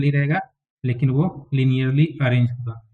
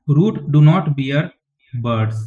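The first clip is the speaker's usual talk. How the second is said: slow dictation; much slower than usual. Shown as a demonstration. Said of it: "dictating notes to students".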